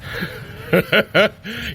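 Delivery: a quick laugh of relief after the escape; breathless laugh. Acted. Companion laughing at the mortal after the snake chase. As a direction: laugh it off, glad to be out of there.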